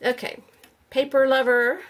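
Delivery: usual speaking voice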